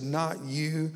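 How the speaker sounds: mild retold rage, rising at the end; patient defying the medic, in a mild rage. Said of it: "in a rage".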